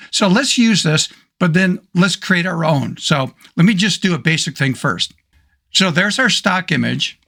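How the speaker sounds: hoarse, losing my voice; hoarse voice from the dry winter air. Real, not acted. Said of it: "Sorry, I'm losing my voice here".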